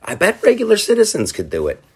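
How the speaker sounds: high, lightly voiced eager founder; a hammed-up high founding-father voice; founders' voice. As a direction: pitch it way up, playful and hopeful. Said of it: "the guys who came up with the whole idea".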